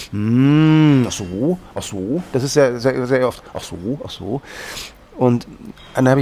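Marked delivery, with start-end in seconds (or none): 0.1-4.4 mock Japanese listener. Imitating Japanese listener noises.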